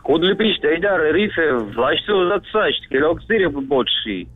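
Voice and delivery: backwards speech. Shown as a demonstration. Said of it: "умеешь поздравить задом наперёд".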